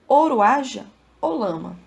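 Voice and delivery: measured, reflective poetry reading; reading a poem aloud; poem recitation. Acted. Recites a sonnet.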